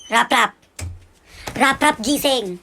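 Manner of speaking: loud mother rousing a sleeper; shouted, impatient wake-up call; angry wake-up yell. Acted. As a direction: yell to get them out of bed. Mother yelling to wake son.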